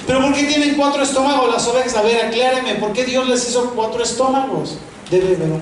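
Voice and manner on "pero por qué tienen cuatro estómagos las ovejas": amused disbelief. Real, not acted. Joking about four stomachs.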